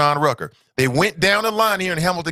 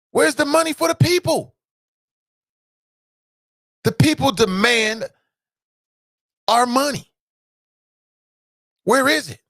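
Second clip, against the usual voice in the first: shouted demand; 8 semitones higher than usual. Real, not acted. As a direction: call it out to the crowd.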